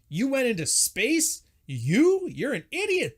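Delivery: high, loud, disbelieving scorn; contemptuous jeer. Retold or imitated. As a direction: sneer at him as if he's a joke. Mocking insults at Homer.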